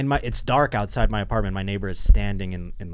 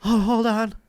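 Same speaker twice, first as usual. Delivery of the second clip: imitating neighbor; 10 semitones higher than usual. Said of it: "she's like".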